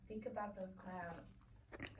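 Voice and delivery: slow hushed prompt; whisper. Real, not acted. Teacher whispering a thinking prompt to students. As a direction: slowly whisper to make them think.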